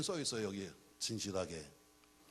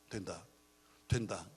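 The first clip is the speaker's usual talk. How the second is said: building proclamation; 2 semitones lower, 8 dB louder than usual. Real, not acted. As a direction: hammer it harder each time, peak on the hallelujah. 확신의 선포를 점점 키움. (낮게 시작해 점점 크게 외치는 확신의 선포)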